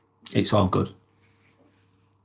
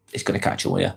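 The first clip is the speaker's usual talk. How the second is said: breathy whisper, dropped soft; whispered warning; 7 dB quieter, much faster than usual. Acted. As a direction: hush it like a secret warning. Repeats warning, first whispered.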